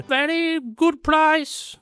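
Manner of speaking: high, slow, sly sales pitch; looky looky man whisper. Retold or imitated. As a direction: coax it like a beach hawker.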